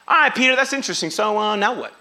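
fast, offhand and unbothered; flippant shrug. Retold or imitated. Crowd brushing off Peter, fast and flippant. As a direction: toss it off like it's no big deal. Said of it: "not some flippant statement".

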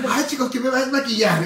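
mock diva. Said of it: "Pero bien segura, ¿eh? Como muy natural".

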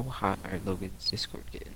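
whispering. Real, not acted. Repeats question whispered.

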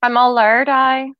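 "I'm all lured" in a natural Derry accent; Derry phrase spoken by a native. Shown as a demonstration. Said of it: "the other one".

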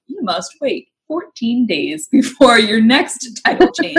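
drawn-out imitation of a rule being handed down; app warning voice. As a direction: imitate a bossy automated message, word by word. Imitating Instagram's stern notice.

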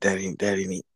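whisper. Pretend. Acting picky bread taker.

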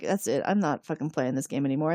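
Riker fed up. Retold or imitated. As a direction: voice dropped low, fed up. Riker quitting the fantasy, voiced.

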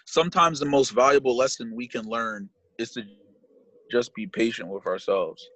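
measured, earnest read-aloud; steady inspirational quote reading. Real, not acted.

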